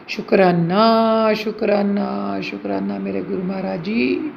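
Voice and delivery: drawn-out, fading words of thanks; slow thankful murmur. Real, not acted. Grateful prayer to Guru ji. (धीमे, डूबते स्वर में शुक्राना)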